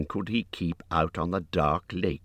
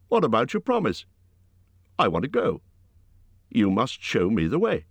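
higher, insistent hobbit voice; insist, trying to sound firm; Bilbo demanding; 5 semitones higher than usual. A narrator's reading. Bilbo demanding Gollum show him the way, insistent.

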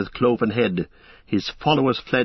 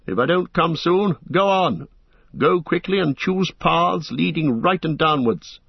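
commanding wizard; 6 semitones higher than usual. A narrator's reading. Gandalf commanding the company.

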